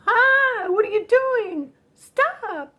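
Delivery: high-pitched alarmed yell, acted out; re-enacted startled yelling, voice shooting high; retold yelling. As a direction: cry out in shock, pitch leaping up. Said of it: "I'm yelling".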